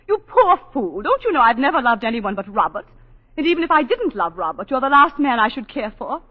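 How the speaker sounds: a flash of retold anger, sharp at the start; losing her temper. Wife reliving how she told him off, mildly angry. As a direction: snap at him, then hold the scorn. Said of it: "then I began to lose my temper".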